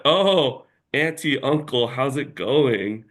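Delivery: mock delighted greeting. Greeting friend's parents, acting delighted.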